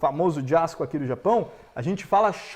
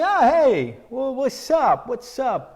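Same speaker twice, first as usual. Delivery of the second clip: friend greeting; 4 semitones higher, slower than usual. Retold or imitated. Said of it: "De falar assim".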